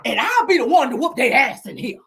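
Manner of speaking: imitated high-pitched rant; mock yell, pitched high at the start and easing down; retold yelling. Nell still yelling as she goes inside, mock high yell. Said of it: "She's still yelling".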